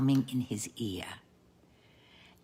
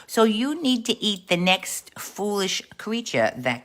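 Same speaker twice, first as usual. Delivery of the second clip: higher, mock-Italian God; Italian accent; 7 semitones higher than usual. God tells the scrawny wolf to eat, in a raised Italian accent. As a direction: put on an emphatic Italian accent, pitched up. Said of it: "I think God is Italian".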